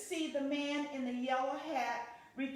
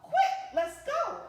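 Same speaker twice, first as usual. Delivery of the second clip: loud, high hurry-up call; rally everyone to run; urging the campers on, loud; urgent; 8 semitones higher, 7 dB louder than usual. Acted.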